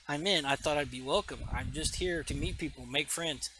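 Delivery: a stranger quietly trying to make friends; Aquaman. Acted. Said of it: "Aquaman's talking real quiet".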